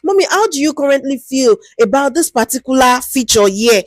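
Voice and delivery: a chatty, friendly hello to an elder; lightly voiced friendly researcher. Shown as a demonstration. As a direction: ease in gently like greeting a street cleaner you respect. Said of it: "So you tell".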